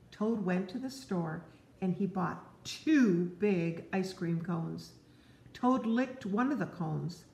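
gentle read-aloud to a little one; storybook narration. Acted. Parent reading Frog and Toad to a child, gently. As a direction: tell it like a bedtime story.

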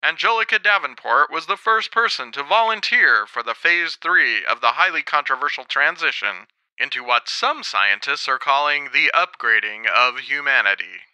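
lightly voiced news report; a hint of newscaster; TV reporter. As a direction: deliver it as a mild broadcast read.

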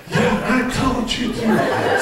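"told you to" slowed, each syllable separate. Retold or imitated. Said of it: "he's syllable spanked".

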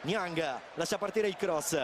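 excited goal call. Real, not acted. Goal commentary.

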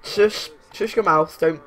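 loud, firm telling-off; stern warning. Acted. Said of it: "given her the side eye".

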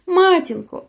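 high, falling call for mother; anguished cry. A narrator's reading. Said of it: "кричить він". (високий стриманий крик відчаю)

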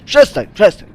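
loud scared pleas; frightened pleading. Real, not acted. Gamer begging the attacking pig to stop, afraid.

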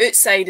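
"outside" said as "ootside"; Scottish pronunciation. Shown as a demonstration. Scot shows what we would say, Scottish oo vowel. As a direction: say "outside" with a Scots oo for ow. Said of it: "is what we would say".

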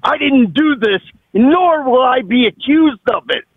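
real indignant denial; agitated, emphatic protest; upset. Real, not acted. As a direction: refuse the accusation firmly, worked up. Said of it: "there's no reason to get so upset".

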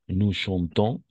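"chantons" ends on a nasal "on"; silent S. Shown as a demonstration. Teacher shows the pupil the ending, silent S. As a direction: leave the final s of "chantons" unsounded. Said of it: "la S no se pronuncia".

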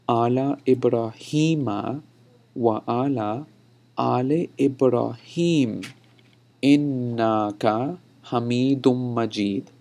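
slow recitation with drawn-out long vowels; emphatic verse demo. Shown as a demonstration. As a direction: recite it phrase by phrase for learners. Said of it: "I'll say that one more time for emphasis".

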